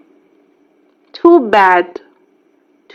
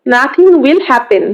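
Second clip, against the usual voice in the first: "Nothing will happen" said slowly, word by word; slow, careful repeat for the class; slow model reading; slower than usual. Shown as a demonstration. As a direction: spell it out slowly for the learner. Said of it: "teacher repeats phrase twice".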